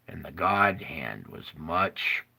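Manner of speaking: soft awestruck whisper; awed whisper. Real, not acted. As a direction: breathe it like a secret wonder. Describing God's huge hand.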